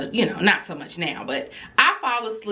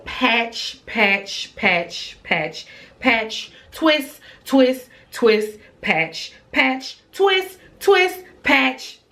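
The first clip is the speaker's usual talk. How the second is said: sing-song tally; 5 semitones higher, much slower than usual. Retold or imitated. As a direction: count them off in exasperated alternation. Listing what she saw on head.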